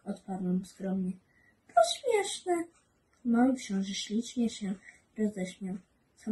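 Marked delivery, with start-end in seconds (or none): 1.7-2.6 laughing. Acted. Little prince laughs at pilot.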